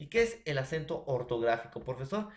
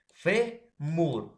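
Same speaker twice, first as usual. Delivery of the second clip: "Fe, mur" with FE high and loud; fémur in two loud pieces, FE pitched way up; stress on first syllable; 4 semitones higher, 6 dB louder than usual. Shown as a demonstration. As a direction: split the word and punch FE. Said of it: "penúltima".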